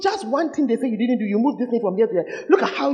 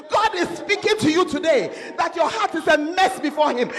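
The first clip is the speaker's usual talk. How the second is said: full-force preaching; 4 semitones higher than usual. Acted. Preacher warning the congregation, preaching at full force. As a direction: preach it hard at the sinner.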